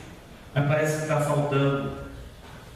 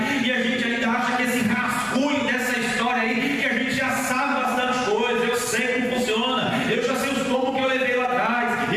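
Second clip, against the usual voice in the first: urgent sermon build, raised pitch; impassioned preaching; 6 semitones higher than usual. Real, not acted. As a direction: pile up the phrases as you preach. Prega com veemência à igreja. (pregação veemente)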